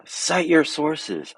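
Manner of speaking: slow, high mock of "Cite your sources"; mock-smug demand; mocking friend. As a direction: drag it out like a smug know-it-all.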